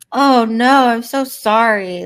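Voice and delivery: super sweet, loud, very slow and drawn out. Describing replying to rude commenters: imitating a super sweet reply. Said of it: "the super sweet, like".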